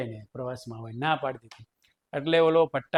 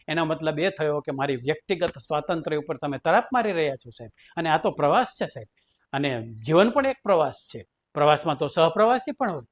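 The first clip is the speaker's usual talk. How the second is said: mock-defiant teacher arguing his rights; cheeky defiant speech to the principal; defiant refusal. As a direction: lecture the boss stubbornly, tongue in cheek. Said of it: "રસિક જાનીએ દાઢી કરાવવાની ઘસી ના પાડી".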